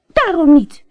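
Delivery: high, loud tearful cry; crying princess. A narrator's reading. Princess refuses the frog, high, loud and tearful. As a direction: shout it through tears. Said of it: "riep de prinses".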